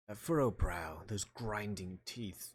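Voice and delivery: lightly British courtroom voice; somewhat British. Acted. Player mistakenly voicing Edgeworth, somewhat British. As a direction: read it with a hint of British, slowing down. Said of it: "It was somewhat British".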